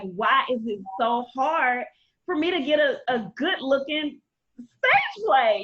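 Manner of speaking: drawn-out, pleading mock wail; half-acted tearful complaint; mock crying. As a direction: retell it as a slow, exasperated cry. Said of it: "I would literally cry".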